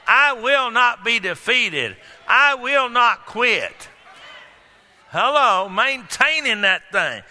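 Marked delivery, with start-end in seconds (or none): 0.1-3.9 slow, loud, defiant declaration; slow louder defiant vow; persistent declaration. Acted. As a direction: proclaim it like you won't be stopped. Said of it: "persistent faith that says".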